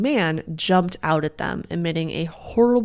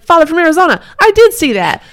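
very high, loud mock daughter; exaggerated girl answering her father; hammed-up daughter; 10 semitones higher, 9 dB louder, faster than usual. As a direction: squeal it up as an over-the-top daughter. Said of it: "And she's like".

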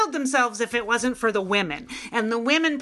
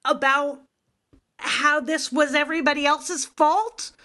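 retold outrage; 5 semitones higher than usual. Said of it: "I was like".

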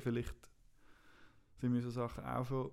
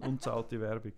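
lachend; 2 semitones lower, slower than usual. Real, not acted. Scherzt über unbezahlte Werbung.

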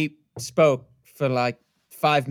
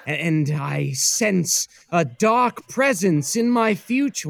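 ominous. Acted. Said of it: "that one went ominous".

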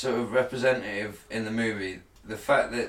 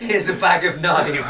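laughing; 5 semitones higher, 4 dB louder than usual. Retold or imitated. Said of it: "you don't go".

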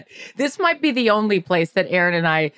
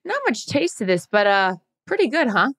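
imitating Jarrett; 3 semitones higher than usual. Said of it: "and goes".

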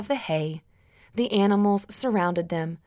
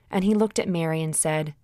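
ordinary delivery, nothing marked

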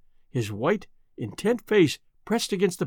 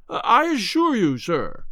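high, anxious assurance; flustered insistence; 4 semitones higher than usual. A narrator's reading. Butler assures his master, flustered. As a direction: insist anxiously, dropping on 'sir'. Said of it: "the butler broke in".

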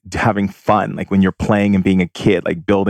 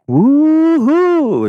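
high, loud whooping cheer; hammed-up party whoop; excited whoop; 4 dB louder than usual. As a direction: whoop like you're on a thrill ride. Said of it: "screaming and yelling".

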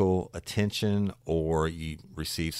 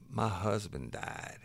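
slow and soft, a touch higher, mildly tearful; lightly voiced woman confessing through tears; tearful reply; 4 semitones higher, 5 dB quieter, slower than usual. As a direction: let it out slowly like a grieving widow, understated. The crying woman answers him.

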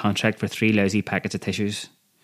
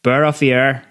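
higher, louder call through the door; yelled all-clear; 4 semitones higher, 4 dB louder than usual. Acted. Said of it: "I yelled in Gaelic again".

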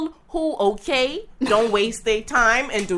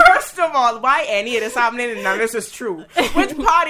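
laughing. Real, not acted. Laughing at the story.

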